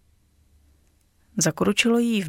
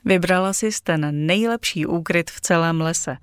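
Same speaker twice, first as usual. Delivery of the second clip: smiling. Acted. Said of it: "usmál se Kazim".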